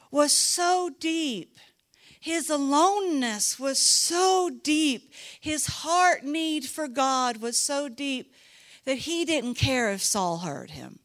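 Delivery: preaching. Real, not acted. Preacher building to climax.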